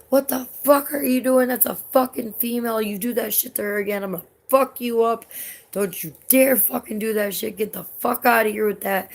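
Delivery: retold angry shout. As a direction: bark it like a protective fan. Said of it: "this dude was like".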